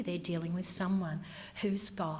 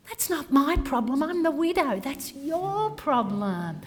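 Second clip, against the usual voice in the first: raised, sharp and upset, the last line slowed right down; indignant widow; 4 semitones higher, 4 dB louder than usual. Acted. A widow rebukes the cemetery clerk, indignant and raised. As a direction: push back hard as the grieving widow. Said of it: "the not so happy face from the customer".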